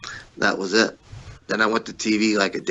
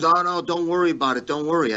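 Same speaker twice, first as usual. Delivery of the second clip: lightly raised, brushing-off promoter voice; a hint of smooth reassurance, pitched up; imitating Pat reassuring; 7 semitones higher than usual. Promoter Pat brushing off the complaint, mildly higher. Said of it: "he goes".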